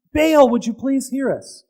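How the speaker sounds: a mild imitated plea; pleading to Baal. Prophets keep begging Baal to hear them, mild plea. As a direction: beg a little plaintively. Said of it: "and saying".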